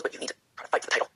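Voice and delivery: soft urgent whisper, no voice behind it; whispered encouragement. Retold or imitated. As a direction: pass on a friend's advice in a hush. Beth urging her, quoted softly.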